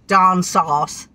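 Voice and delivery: "down south" in mock southern vowels; southern English accent. Wife describes her granddaughters' home, southern English accent. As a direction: imitate southern English speech. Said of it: "where they talk like that".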